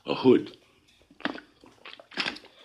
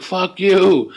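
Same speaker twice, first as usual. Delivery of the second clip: sudden loud high "Fuck you"; retold angry yell; 11 semitones higher, 9 dB louder than usual. The angry guy yelling at the car, loud high shout. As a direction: shout it back like the guy did. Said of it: "He's like".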